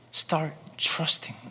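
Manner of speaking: slow breathy whisper of God's word. Pretend. Preacher voicing God to his congregation, slow whisper. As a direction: breathe it out, very slow, barely voiced. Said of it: "영어로 말씀하시더라고요".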